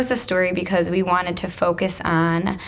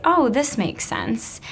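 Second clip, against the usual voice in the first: student realizing; 5 semitones higher, slower than usual. Retold or imitated. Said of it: "they have that moment where they say".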